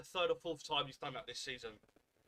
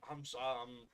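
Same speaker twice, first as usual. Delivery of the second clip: quiet seething; 3 semitones lower, 5 dB quieter than usual. Real, not acted. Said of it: "I'm fucking seething".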